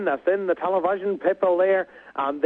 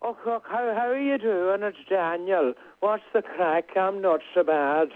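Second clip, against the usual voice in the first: a hint of a friendly Donegal crooner saying hello; impression of a singer. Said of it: "a go at a singer".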